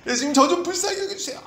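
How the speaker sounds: very high-pitched plea for mercy. Acted. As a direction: beg insistently at a high pitch. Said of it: "막 소리를 더 지르는 거죠". (더 간절하게 높이 부르짖기)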